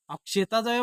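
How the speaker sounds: not said straight. Shown as a demonstration. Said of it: "मग तू सरळ बोल ना". (वरच्या पट्टीत नक्कल करून)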